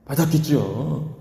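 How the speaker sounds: ordinary delivery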